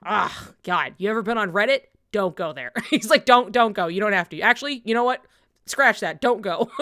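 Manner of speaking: loud, warning mock advice; hammed-up online guy warning off Reddit; villain warning the hero away from Reddit; mock jaded redditor. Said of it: "he'd be like".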